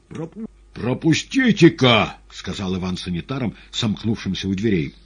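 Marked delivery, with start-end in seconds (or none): 0.1-2.2 high, loud, stumbling demand; demanding passage. Acted. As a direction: push past them with a raised voice. Patient demands orderlies let him pass.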